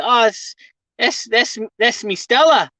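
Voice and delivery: put-on Australian bloke; imitated Aussie accent. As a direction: feel your way into an Aussie accent. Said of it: "They're like".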